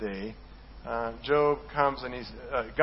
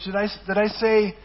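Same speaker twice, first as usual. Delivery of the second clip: voicing God; 5 semitones higher, 5 dB louder than usual. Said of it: "God says about the ostrich".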